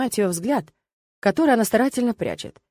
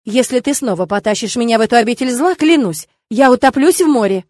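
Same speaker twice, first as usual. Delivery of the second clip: through gritted teeth; 3 semitones higher, 7 dB louder than usual. A narrator's reading. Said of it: "заявила Леона сквозь зубы".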